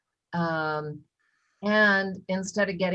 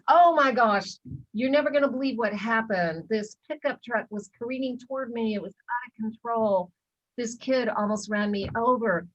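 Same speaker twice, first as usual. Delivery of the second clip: a bit higher, blurting out the news; excited retelling; 4 semitones higher than usual. Retold or imitated. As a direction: speaker telling husband about the near-miss, excited. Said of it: "And I s".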